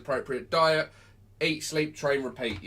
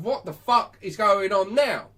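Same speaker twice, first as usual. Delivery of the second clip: slow, louder, incredulous question; baffled dog's voice; 3 semitones higher, 5 dB louder than usual. Acted. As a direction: play a dog utterly puzzled by its owner. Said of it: "until the dog looks at you and go".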